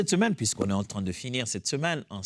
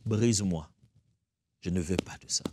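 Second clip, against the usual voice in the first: quiet prayer; 5 semitones lower than usual. Shown as a demonstration.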